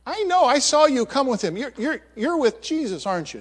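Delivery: high, insistent, accusing voice; a bystander accusing Peter, high and insistent; second accuser. Acted. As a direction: pin him down, sure of it.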